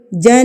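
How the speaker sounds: جن with the نون resonating in the nose; nasal ghunna. Shown as a demonstration. Teacher repeats the ghunna on جن. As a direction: keep the نون of جن humming in the nose. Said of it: "اس کو غنہ کرنا کہتے ہیں".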